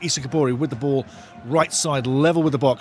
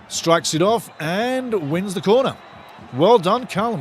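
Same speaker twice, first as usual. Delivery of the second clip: excited cheer; 3 semitones higher than usual. Real, not acted. Fan cheering his player's smart play.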